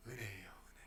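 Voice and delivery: hushed whisper, almost no voice. Acted. Pastor whispering the answer to the congregation. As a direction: lean in and breathe the words. Pastor drives the point home.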